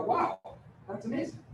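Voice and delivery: feigned surprise at a great deal; mock amazement. Acting amazement at free storage.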